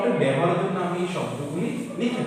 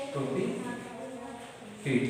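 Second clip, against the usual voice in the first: প্রতিকৃত stretched very slowly, pitched up and softer; slow, soft dictation; 7 semitones higher, 6 dB quieter, much slower than usual. Shown as a demonstration. Teacher modelling word slowly for pupils. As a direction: breathe out প্রতিকৃত slowly and high.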